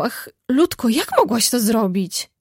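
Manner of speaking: a touch of tears on Ludko; lightly weeping plea to her sister; tearful reproach. Acted. Meg pleads tearfully with her sister Jo. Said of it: "płacząc, jakby jej serce pękło".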